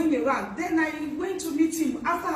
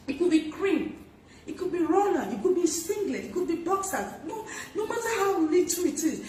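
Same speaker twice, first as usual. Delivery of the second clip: laughing; 6 semitones higher than usual. Real, not acted. Listing small gifts, amused.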